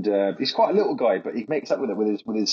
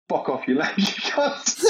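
bad Liam impression; 7 semitones higher, slower than usual. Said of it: "I can't do his accent".

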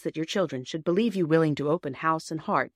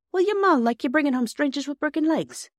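much higher rustic character voice; doubtful farm bailiff; 10 semitones higher, 4 dB louder than usual. Acted. Bailiff questioning a child about her mother, doubtful rustic voice.

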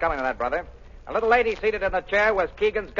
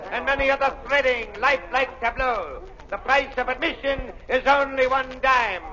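snake oil seller; 3 semitones higher than usual. Acted. Waxworks barker calling in crowd.

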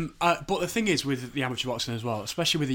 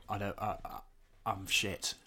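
quiet inner voice; 4 semitones lower, 7 dB quieter than usual. Retold or imitated. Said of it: "I thought".

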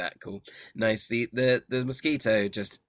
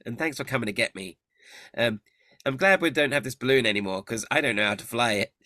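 Agden's voice; 3 semitones higher than usual. Acted.

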